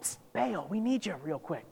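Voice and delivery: soft, secretive psst; stage-hushed, playful summons; hushed mock wake-up call. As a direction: call softly to rouse a sleeper. Acting out waking a sleeping god.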